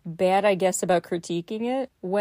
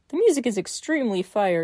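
lightly mocking sarcasm on "fire"; deadpan jab at the writer; sarcastic; 2 semitones higher than usual. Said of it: "he says sarcastically".

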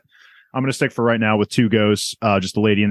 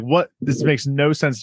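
higher-pitched bewildered protest; retold freak-out; 5 semitones higher, slower than usual. Viewer retelling shock at the dream scene, freaking out. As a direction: replay your baffled reaction, pitch lifted. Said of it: "I'm, like, freaking out".

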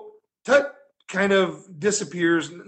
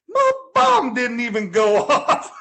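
slow, louder, laughing through it; laughing quote; 4 semitones higher, 4 dB louder, slower than usual. Retold or imitated. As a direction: crack up mid-line. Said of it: "then he goes".

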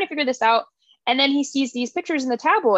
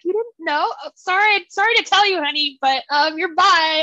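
lightly voiced Nora, a touch higher, playful; teasing Nora; 5 semitones higher than usual. Friend Nora breaking the news to Alex, mild teasing. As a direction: tease him gently with the news. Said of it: "She's like".

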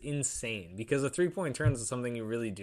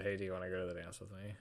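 casual ask; 5 semitones lower, 11 dB quieter, much faster than usual. Retold or imitated. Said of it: "just walked up to them and just said".

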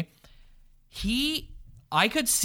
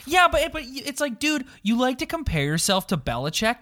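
wrestling promo; 2 semitones higher than usual. Acted. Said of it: "I'm about to cut a promo on Mike Babcock".

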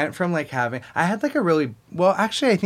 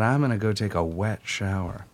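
Freckle; 3 semitones lower than usual. Retold or imitated. Actor recalling finding the truth in the line, sincere affectation. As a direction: play the line earnestly, lightly affected. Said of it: "I just found the truth".

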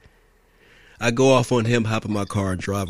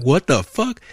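higher-pitched startled exclamation; retold shock; 6 semitones higher, 4 dB louder, slower than usual. Driver reacts to a gun pulled on him, shocked. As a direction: act out being caught off guard.

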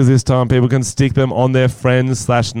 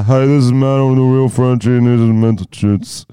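lightly put-on host intro; a hint of a brother's voice; brother impression; 2 semitones higher, 3 dB louder than usual. Host imitating their brother introducing the segment, lightly put-on voice. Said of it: "That's my brother".

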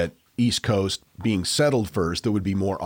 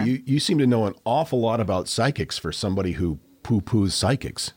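snarky; 3 semitones higher than usual. Real, not acted. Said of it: "Gee, you get awful snarky".

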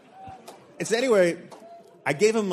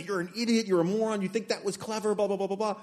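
mock angry caller; 5 semitones higher than usual. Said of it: "just tore into me".

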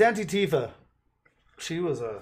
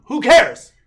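mock who cares; 7 semitones higher, 17 dB louder than usual. Mock dismissive outburst.

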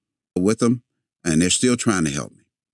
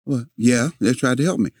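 higher, grudging admission; sheepish kid; 4 semitones higher than usual. Retold or imitated. Boy conceding to grandma, higher voice. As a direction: give in like a scolded boy.

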